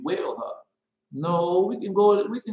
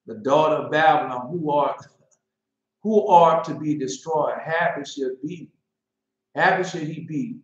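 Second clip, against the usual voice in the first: mock biblical prophet. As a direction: declaim it like a prophet. Reading Psalms aloud.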